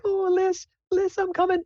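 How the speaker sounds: very high, gushing falsetto mom; excited mom. Acted. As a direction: squeal it like an overjoyed mother. Excited mom calling to daughter.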